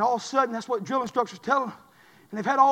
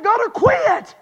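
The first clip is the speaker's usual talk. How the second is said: tag; 10 semitones higher, 7 dB louder, much slower than usual. Acted. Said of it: "You know what old devil's doing".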